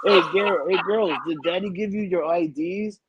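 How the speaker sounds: hammed-up call over to the girls; imitating uncle. Dad mimicking the uncle at a bar, mock hollering. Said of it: "So he's gonna be like".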